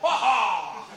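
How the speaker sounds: loud, hearty HAW HAW; macho HAW laugh. Shown as a demonstration. Comedian showing how a winning guy laughs, loud. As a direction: bark a manly HAW HAW. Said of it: "It's H A W, H A W".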